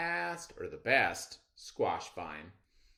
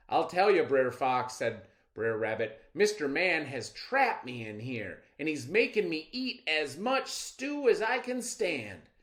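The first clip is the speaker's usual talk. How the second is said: higher, louder urgent warning; trickster rabbit spinning a tale; 7 semitones higher, 8 dB louder than usual. Acted. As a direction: scare him off with a tall tale.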